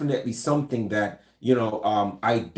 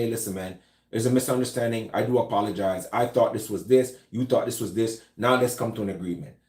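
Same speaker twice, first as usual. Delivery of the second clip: non-threatening apology; 3 semitones lower than usual. Shown as a demonstration. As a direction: back down gently, hands up. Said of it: "I want to de-escalate".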